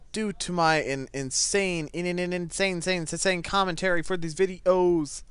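stumbling, stuttered repetition; spazzed-out words. Real, not acted. Gamer distracted mid-commentary, stammering over words. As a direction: trip over the word and restart it repeatedly. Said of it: "why I spazzed out with my words".

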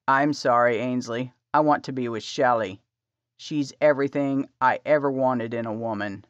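cold dismissal, lightly voiced; husband leaving her. A narrator's reading. Dream husband rejects her.

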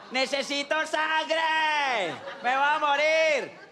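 high, slow, desperate cry; hammed-up dying plea; dying hand pleading. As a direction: wail like a starving hand.

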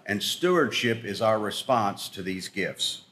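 slow, deliberate line to repeat; slow lead line. Shown as a demonstration. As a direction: spell it out slowly for the room. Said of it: "please repeat after me".

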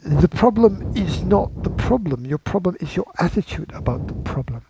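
terrible attempt at a London accent; lightly put-on London accent. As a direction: have a half-hearted go at a London accent. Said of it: "my London accent for this one".

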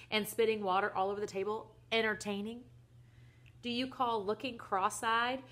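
indignant list of grievances, hitting key words; worked-up, incredulous questioning; exasperated rant. Acted. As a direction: rant like a fed-up father. Father rants about son's antics.

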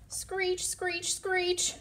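high, piercing animal screech; screeching call. Acted. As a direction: screech it like a startled critter.

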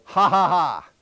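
loud, chopped "ha, ha, ha"; demo laugh. Shown as a demonstration. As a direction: bark out each ha on one breath. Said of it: "keep your hand there and go".

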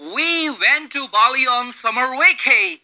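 slow, careful read of the whole sentence; teacher reading the example slowly. Shown as a demonstration. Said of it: "हम ये कह सकते हैं".

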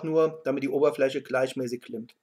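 talking around pipe stem; pipe in mouth. Real, not acted. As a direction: lips closed on stem. Seen 0: Pipe stem held between lips while speaking; lighting happens later, 3.5-6.5.

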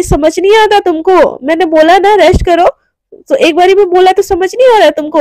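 snapping at her to just rest; angry scolding. Retold or imitated. Boss Devika scolds Radhika for refusing rest, angrily.

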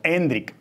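"Hendrik" as a neat EN-drik; stress on first E. Shown as a demonstration. Guest confirming the name, "Hendrik" stressed on E. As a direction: lean on the E in "Hendrik", stop on k. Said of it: "Acento, eh, y tilde en la E".

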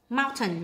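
"mountain" stressed on its first syllable. Shown as a demonstration. Teacher marking word stress for students, first-syllable stress on "mountain". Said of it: "nhấn âm một".

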